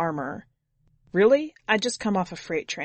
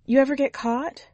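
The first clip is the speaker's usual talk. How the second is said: much higher woman's voice, a little louder; chatty driver breaking the ice, pitched up; Susie; 7 semitones higher, 3 dB louder than usual. A narrator's reading. Driver asks hitchhiker his name, much higher voice. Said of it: "Susie questions Jimmy".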